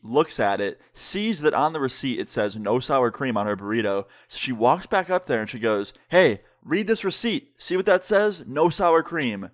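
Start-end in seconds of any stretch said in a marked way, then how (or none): 6.1-9.5 slow, higher-pitched insistence; mildly irritated retelling, drawn out; retold pissed-off friend. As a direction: imitate an annoyed customer spelling it out slowly. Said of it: "my friend was getting very pissed".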